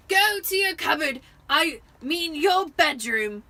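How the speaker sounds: high, loud, breathless bellow; gasping orders after the fight; wheezed. A narrator's reading. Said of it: "he wheezed".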